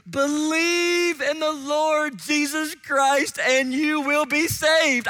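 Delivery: solemn apostle answer. Retold or imitated. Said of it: "what do Paul and Silas say".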